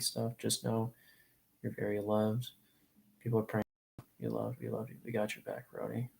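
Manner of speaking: real emotion, voice pulled down to hold back crying; holding back tears. Real, not acted. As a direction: near tears, speaking softly to a friend. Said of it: "I know I'm getting emotional".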